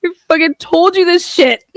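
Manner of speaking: loud triumphant I-told-you-so; triumphant shout. Real, not acted. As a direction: crow it, vindicated.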